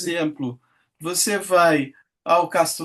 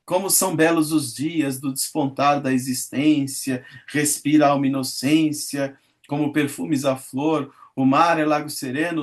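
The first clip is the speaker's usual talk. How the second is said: poem recitation; 2 semitones lower than usual. Acted. Teacher reading Meus Oito Anos to class, recited lyrically. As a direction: recite it like a school poem, savouring each line.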